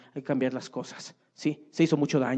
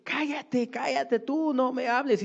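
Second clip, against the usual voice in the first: mock angry mother; 10 semitones higher, slower than usual. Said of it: "tense mother snaps at child".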